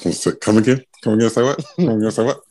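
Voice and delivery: loud, teasing say what; mock disbelief; playful come again. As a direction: toss the phrases back and forth.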